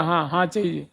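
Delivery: soft, accepting हाँ, हाँ; agreeing yes. Shown as a demonstration. Teacher showing हाँ as acceptance, soft and agreeable. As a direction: say हाँ, हाँ softly and falling, as a willing yes. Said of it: "स्वीकृति मूलक".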